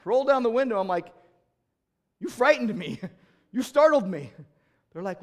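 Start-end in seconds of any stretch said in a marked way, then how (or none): 2.2-4.3 laughing startled. Retold or imitated. Telling stranger they startled him.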